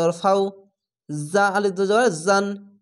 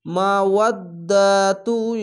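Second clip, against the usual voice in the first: very slow, drawn-out recitation; Quran recitation; much slower than usual. Shown as a demonstration. Teacher reciting one word for students, very slow. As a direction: chant the word, stretching each syllable. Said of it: "এখানে ইদগামে বা গুন্না".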